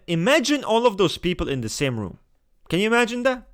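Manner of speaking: rising into a loud, high, laughing "can you imagine"; picture the chaos and crack up at it; amused disbelief. Real, not acted. To viewers, picturing intense types crammed together, laughing and incredulous.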